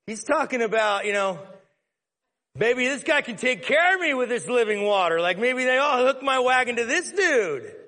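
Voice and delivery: a hint of an eager woman; voicing the woman. Woman voiced in retold scene.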